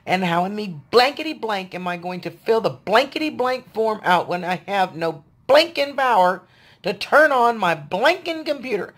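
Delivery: censored angry rant. Retold or imitated. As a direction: vent the fury but bleep yourself. Censored rant about the form.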